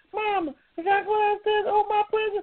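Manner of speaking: put-on very high little-kid baby voice. Retelling childhood christmas, playing his younger self asking his mama, in a baby voice. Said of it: "you didn't do the baby voice".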